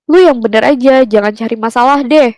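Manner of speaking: mildly heated mock scolding; retold anger. Brother warning the speaker not to cause trouble, retold anger. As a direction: imitate a sibling telling someone off. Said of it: "Terus dia sempet marah".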